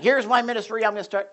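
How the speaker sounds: mock a man raring to begin; fired up. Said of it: "he was really fired up".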